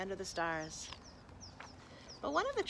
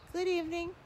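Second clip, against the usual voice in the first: sad greeting; 9 semitones higher, faster than usual. Acted. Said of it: "said the ugly truckling sadly".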